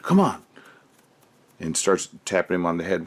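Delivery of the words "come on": mock exasperated teacher; teacher's mock scold. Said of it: "the teacher said".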